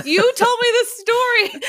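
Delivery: high, laughing indignant protest; exasperated daughter, laughing through it. Retold or imitated. Daughter protesting to her mom, high and laughing.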